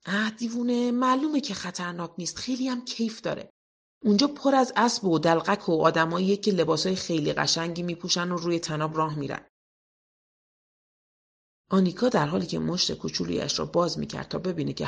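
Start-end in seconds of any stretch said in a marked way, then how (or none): 0.1-9.5 put-on a boy eagerly explaining the circus; boy telling Pippi the circus is fun; Tommy voice.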